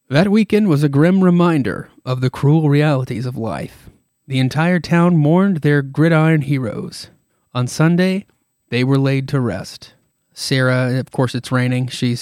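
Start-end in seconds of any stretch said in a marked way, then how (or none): 0.1-9.9 grave storybook narration, like a horror show host; narrator voice. Acted. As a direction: tell it like the show's ominous narrator. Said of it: "my narrator voice".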